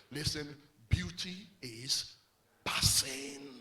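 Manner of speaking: slow, breathy whisper on passing; whispered sermon point; hushed whisper. Acted. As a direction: lean in and let it fade.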